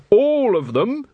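menacing. A narrator's reading. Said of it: "said Carrot menacingly".

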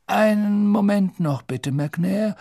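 polite, stalling headmaster; calm old wizard buying time; old headmaster's voice. Acted. Dumbledore voiced.

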